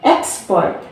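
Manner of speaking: "export" with the weight on EX; first-syllable stress. Shown as a demonstration. Teacher giving a second example, "export" stressed on its first syllable. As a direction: hit EX in "export", let "port" fall. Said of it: "we stress here from X".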